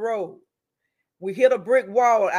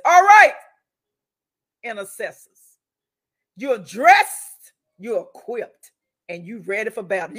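rally the prayer team for battle; rallying call; 6 dB louder than usual. Retold or imitated. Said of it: "the last thing I say is".

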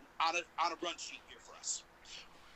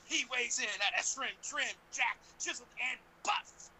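ringmaster; 4 semitones higher than usual. Pretend. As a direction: ring announcer introduction. Hyping second guest introduction.

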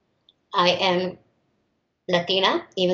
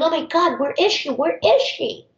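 higher-pitched imitation of a panicky woman; mildly frantic mimicry, pitched up; retold frantic worry; 7 semitones higher than usual. Office woman pacing, waiting for the substitute, retold frantic.

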